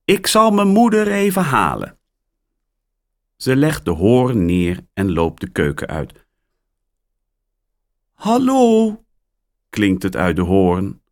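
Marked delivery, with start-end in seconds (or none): 0.0-2.0 put-on higher, louder girl's voice; girl answering phone. A narrator's reading. Mia answering the phone, higher girl voice. 8.1-9.0 very high squawking parrot. A narrator's reading. Parrot Polly squawks hallo, very high.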